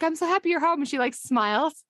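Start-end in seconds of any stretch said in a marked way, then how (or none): 0.0-0.8 high-pitched, lightly acted happy welcome; imitated overjoyed greeting. Wife greeting returning Howard, imitated high gushing welcome. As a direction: lift it high, lightly mimicking delight. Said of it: "she's like".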